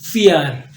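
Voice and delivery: फियर with an f start; German vier. Shown as a demonstration. Teacher repeats German four for students. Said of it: "इसी तरह पढ़ते हैं फियर".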